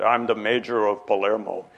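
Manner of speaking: put-on a light touch of an Italian accent; imitating the Italian mayor, accent only hinted. The mayor of Palermo phoning early on a Saturday, hint of an Italian accent. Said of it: "this man with a very, very heavy Italian accent".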